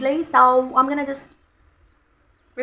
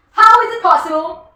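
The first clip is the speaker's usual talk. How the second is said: higher, louder, slow disbelief; shocked; 7 semitones higher, 9 dB louder, slower than usual. Real, not acted. Staring in the mirror at her missing gloss, shocked. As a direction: gasp it out in disbelief.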